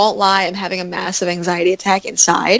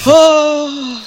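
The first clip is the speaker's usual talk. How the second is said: sudden high yelp of fright; startled cry; 8 semitones higher, 4 dB louder than usual. Real, not acted. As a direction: jump at the sight of it. Spider panic, high startled cry.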